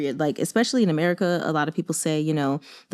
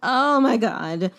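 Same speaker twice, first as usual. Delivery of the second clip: dawning dismay; slower than usual. Retold or imitated. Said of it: "I was like".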